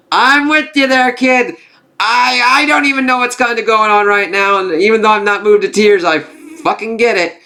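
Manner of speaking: hammed-up commiseration with a crying kid, very high; mock wailing. Acts out sympathising with crying kid.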